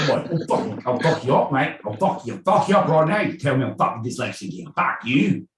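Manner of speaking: mock-furious yob squaring up; mock hooligan threat. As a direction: threaten like a pub brawler, half joking. Acted Cockney hooligan threat.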